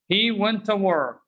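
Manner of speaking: "went to" blended as "wenta"; weak "tuh" for "to", running into "work"; connected "wenta work"; reduced pronunciation. Shown as a demonstration. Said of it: "Repeat after me".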